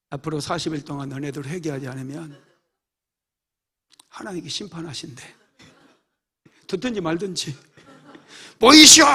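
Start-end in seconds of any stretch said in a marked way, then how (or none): 0.1-5.4 quiet telling. Retold or imitated. Jonah quietly warns Nineveh, soft and understated. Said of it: "조용조용히 전해요". 8.6-9.0 loud, much higher shout; shouted call. Shown as a demonstration. Jonah crying out to the city, loud and high. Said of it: "이렇게 안 해요".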